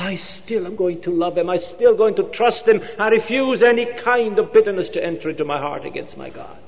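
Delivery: fervent declaration. Acted. Father declares unshaken faith.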